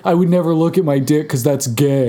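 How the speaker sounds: hammed-up insecure guy; mock macho man. Mocking Richard's insecurity, mock macho-man voice. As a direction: lightly put on a manly-man voice. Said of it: "And I'm like, Oh, I'm a man".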